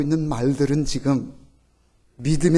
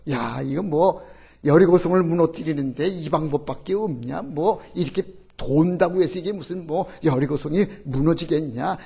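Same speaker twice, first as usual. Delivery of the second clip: grumbling crowd. Retold or imitated. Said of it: "불평하면서 막 떠들면서".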